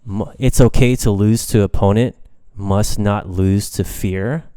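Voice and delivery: mild imitation of a wise old teacher; lightly voiced sensei, slowing on the second half; Mister Miyagi. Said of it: "Mister Miyagi puts it best saying".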